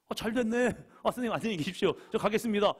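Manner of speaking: high, loud cheerful goodbye; happily cheeky farewell; gleeful student. Retold or imitated. Student gleefully accepts dismissal. (집에 가라는 말에 신나서 하는 인사)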